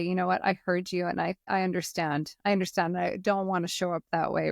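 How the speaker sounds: sincere return. Retold or imitated. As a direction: come back gently and own it. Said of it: "show back up and say".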